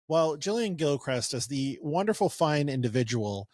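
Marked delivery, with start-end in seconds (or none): 1.5-3.5 understated sarcastic praise; mock compliment, delivered dryly. Real, not acted. Host introducing a candidate he opposes, understated sarcasm. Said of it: "there was sarcasm there".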